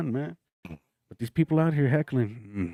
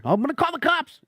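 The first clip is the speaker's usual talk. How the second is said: mock tattletale; 12 semitones higher than usual. Mocking someone threatening cops.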